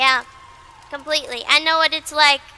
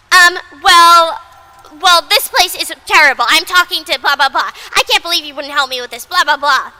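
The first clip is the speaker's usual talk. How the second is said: louder indignant complaining customer, fast; mock angry customer; 6 dB louder than usual. Retail customer berating the clerk, mock indignant. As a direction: ham up the customer's outrage.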